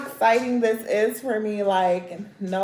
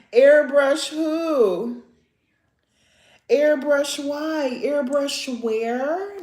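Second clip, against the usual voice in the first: sassy rhetorical; 5 semitones higher, much slower than usual. Real, not acted. Mocking questions, slow.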